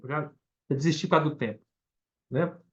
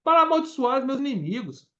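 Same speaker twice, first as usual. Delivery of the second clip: angry king reading; 5 semitones higher than usual. Retold or imitated. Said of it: "Ficou bravo, falou assim".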